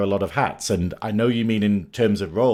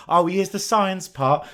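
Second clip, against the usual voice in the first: hammed-up hair advert presenter, slow and high; slow, high-pitched mock advert line; 7 semitones higher than usual. Co-host mimicking a star's hair advert, hammed-up impression. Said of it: "it's like Cheryl Cole doing the hair adverts".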